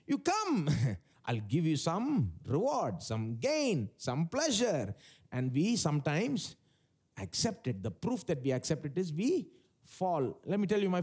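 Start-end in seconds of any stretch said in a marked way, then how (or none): 0.1-4.9 lightly voiced tempter listing rewards; sin's proposition. Sin luring someone with gain, lightly voiced enticing offer. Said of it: "Sin is proposing, saying".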